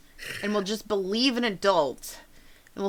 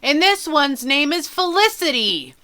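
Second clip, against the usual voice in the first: loud and eager, pitched up; loud kid voice; 6 semitones higher, 6 dB louder than usual. Acted. Kid showing off his chickens, loud and eager. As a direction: announce the chicken proudly. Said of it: "Pip loudly goes".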